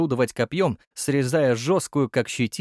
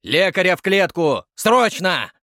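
loud, high urgent command; urgent order; 6 semitones higher, 6 dB louder than usual. A narrator's reading. Curator orders a medic, loud and urgent. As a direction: bark for the medic now.

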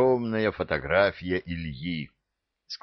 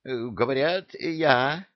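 angry puffing; 7 semitones higher, slower than usual. A narrator's reading. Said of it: "сердито пропыхтел джинчик".

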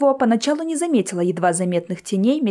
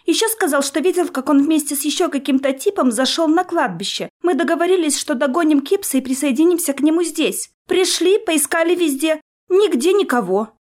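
thin little voice; 6 semitones higher than usual. A narrator's reading. Bobby continues in thin voice.

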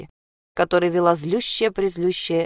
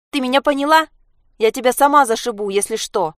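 threatening; 6 semitones higher, 5 dB louder than usual. Acted. Sasha threatens mother.

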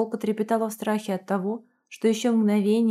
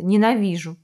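tearful shout; 4 dB louder than usual. Acted. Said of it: "девушка кричала, размазывая слёзы".

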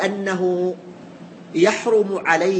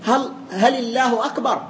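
هل الله أكبر pitched up as a question, leaning on هل; asking a question; 4 semitones higher than usual. Shown as a demonstration. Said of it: "فكأنه يستفهم".

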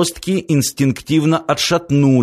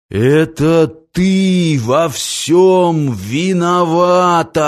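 angry accusation; 5 semitones higher, much slower than usual. Acted. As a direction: hurl the blame at her slowly. Giant blames the girl.

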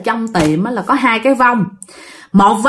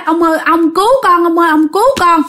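raised, pleading cry for rescue; calling for help; 6 semitones higher than usual. Acted. Frightened sleeper begs the old man to save her, pleading. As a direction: call out to an elder to save you. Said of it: "Tự nhiên bạn kêu vậy đó".

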